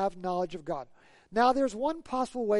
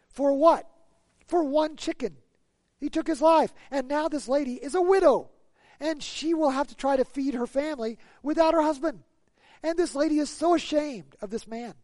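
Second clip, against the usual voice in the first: higher and louder preaching outrage; rising indignation; 5 semitones higher, 4 dB louder than usual. Acted. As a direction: thunder at the pointless killing.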